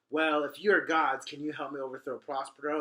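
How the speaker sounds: hopeful plea to the gods; eager Caliban. Retold or imitated. Caliban begs his new gods to overthrow Prospero, loud and eager. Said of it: "he's like".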